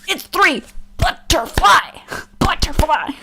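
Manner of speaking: high, loud, near-crying whine; a hint of crying kid insisting she's right; mock whiny protest. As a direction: plead like a wronged kid.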